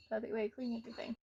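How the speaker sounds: talking between gulps of water; quick words around a swallow; gulping a drink. Real, not acted. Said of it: "Sorry about the gulping".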